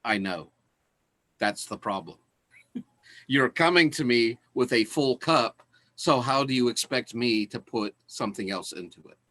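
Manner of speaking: a lightly voiced serene teacher; calm Zen master. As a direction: gently let the point land. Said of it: "the Zen master says".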